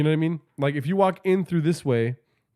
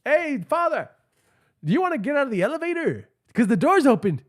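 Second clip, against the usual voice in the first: much higher teasing coo; mock flirty falsetto; 9 semitones higher than usual. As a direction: sweet-talk him in a high voice. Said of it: "I started calling him daddy".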